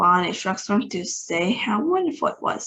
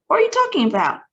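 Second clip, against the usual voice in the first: high and louder demand; yelling; 7 semitones higher, 5 dB louder, much faster than usual. A narrator's reading. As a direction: keep the yell going. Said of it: "yelled the president".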